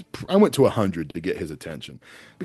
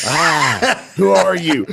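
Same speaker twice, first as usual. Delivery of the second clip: excited recognition; 8 semitones higher, 10 dB louder, much slower than usual. Retold or imitated. Starstruck recognizing celebrity.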